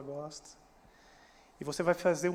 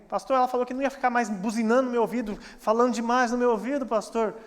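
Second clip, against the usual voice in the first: a touch higher and louder, quick grumbling to the pastor; mock complaining husband; 4 semitones higher, 4 dB louder than usual. Husband complaining to the pastor about his nagging wife, quick and raised.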